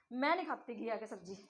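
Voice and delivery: मैं made most prominent, the rest falling away; strong opening stress on मैं; word stress demo. Shown as a demonstration. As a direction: hit मैं first, then ease off. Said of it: "किस word के ऊपर stress किया गया है".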